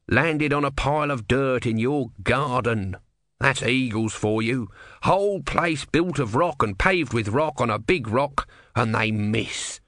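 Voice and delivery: slow, grudging tortoise voice; testy little god; grumpy tortoise god. Acted. Tortoise explains.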